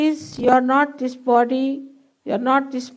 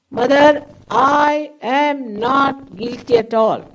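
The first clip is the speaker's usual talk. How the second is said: slow, firm affirmation, louder on Mother; full confidence; 3 dB louder, slower than usual. Shown as a demonstration. Guide showing meditators how to affirm, confidently. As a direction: declare it with total self-belief. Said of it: "full confidence you have to say".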